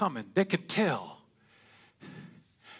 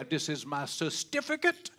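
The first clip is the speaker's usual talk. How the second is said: Chicken George. Retold or imitated. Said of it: "Chicken George say".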